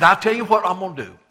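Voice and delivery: deal-making ruler pitching an offer to the crowd; lightly voiced governor, loud and fast; Pilate. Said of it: "He said".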